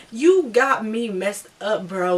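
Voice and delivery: slow, drawn-out indignant reproach; indignant confrontation. Retold or imitated. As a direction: drag out each word at him, mildly loud. Acted confrontation with the boy.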